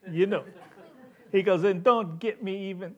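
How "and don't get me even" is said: put-on botched French accent sliding into Italian; badly faked French-Italian accent; French turning Italian. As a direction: attempt French and let it slip toward Italian. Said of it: "it always turns Italian".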